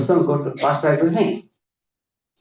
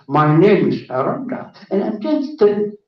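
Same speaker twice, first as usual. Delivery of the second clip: louder, grown-up announcement; imitated adult voice; 3 semitones higher, 4 dB louder than usual. Regressed patient suddenly introducing herself, imitated adult voice. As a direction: drop the baby talk and declare it loudly. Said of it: "started talking in adult's voice".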